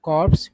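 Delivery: "कॉर्प्स" with P and S wrongly sounded; wrong pronunciation. Shown as a demonstration. Teacher warning of a mistake, "कॉर्प्स" with P and S pronounced. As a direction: say "कॉर्प्स" with every final consonant heard. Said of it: "गलत उच्चारण".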